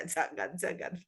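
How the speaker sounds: ordinary delivery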